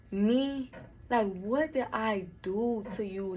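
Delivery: slow, hurt question. Retold or imitated. Betrayed sister asking what she did, slow and hurt. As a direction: ask it slowly, wounded.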